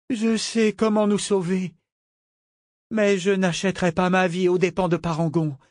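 jeune femme, voix plus aiguë et lente; voix d'Ambre. A narrator's reading. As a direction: parle avec gravité, sans céder. Ambre speaks, held character voice. (Ambre, voix aiguë, lente et résolue)

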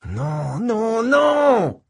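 sharp high yell of panic. Acted. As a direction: cry out no in alarm. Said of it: "hurlai-je".

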